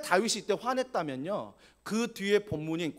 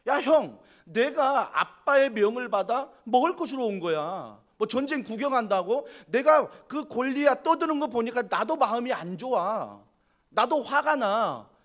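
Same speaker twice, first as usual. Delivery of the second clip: louder, indignant talking back to big brother; David snapping back at his mocking older brother, louder; angry retort; 2 semitones higher, 4 dB louder than usual. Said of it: "다윗이 이렇게 말하지 않을까요".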